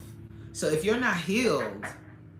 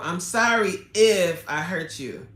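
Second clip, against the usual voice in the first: mock fake apology; 2 semitones higher, 6 dB louder than usual. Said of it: "when people say".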